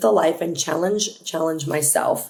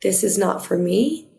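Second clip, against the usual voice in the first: calm inner voice; slower than usual. Acted. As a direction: say it calmly, without any urgency. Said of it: "something very calmly says".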